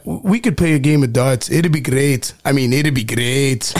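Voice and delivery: playful go at a British accent; attempted British accent. Shown as a demonstration. Guest performs a little monologue on request, in a mock British accent. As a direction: put on an amateur British accent. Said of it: "I'll do the British accent".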